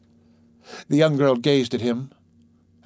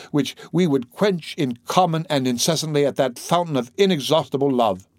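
impassioned, tormented priest pleading; a priest begging in torment; anguished priest; 5 semitones higher, 3 dB louder than usual. Acted. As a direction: pour out a desperate forbidden love. Priest's anguished plea to girl.

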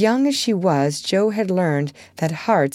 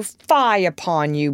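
mock scolding rhyme. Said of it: "say with our friend Cock Robin".

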